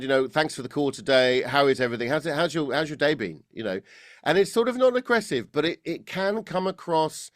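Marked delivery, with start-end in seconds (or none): 0.3-3.4 pushed, slightly arrogant throat sound; exaggerated throat voice. Shown as a demonstration. Coach exaggerating a throaty caller, slightly aloof alpha manner. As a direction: overdo speaking from the throat, a touch distant. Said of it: "an exaggerated impression here".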